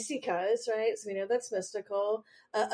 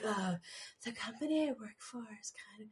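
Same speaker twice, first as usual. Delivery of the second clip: mocking a quiet voice, even quieter; 10 dB quieter than usual. Teasing another speaker by copying how they just spoke: imitating someone speaking quietly. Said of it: "You're just like".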